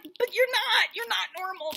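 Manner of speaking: high-pitched sing-song correction; mock pitying contradiction. Audience answering the odd contestant, mock pitying.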